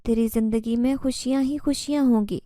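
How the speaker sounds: lightly voiced jinn woman, calm and pleading; strange tone. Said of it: "وہ عجیب لہجے میں بول رہی تھی".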